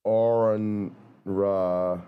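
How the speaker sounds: "Aaron Ra" drawn out very slowly, each part of the name said carefully; "Aaron Ra", said slowly and with care; careful name pronunciation. Shown as a demonstration. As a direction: slowly sound out "Aaron Ra" to get the name right. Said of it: "that still didn't sound right".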